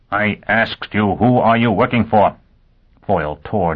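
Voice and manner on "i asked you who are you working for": slow, pressing repeat of the question; slow menacing demand. Acted. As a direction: lean on who, threatening. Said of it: "Dagenham's hands shook".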